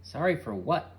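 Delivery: loudish retort; yelled back. A narrator's reading. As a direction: shout it back. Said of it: "Butch yelled back".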